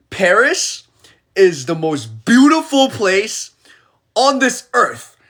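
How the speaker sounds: breathless whisper, high; awed whisper. Real, not acted. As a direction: whisper it in awe. Awe at Paris.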